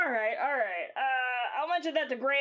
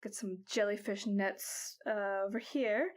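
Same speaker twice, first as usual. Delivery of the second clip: put-on lightly pitched-up old granny; old lady voice. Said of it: "old lady voice".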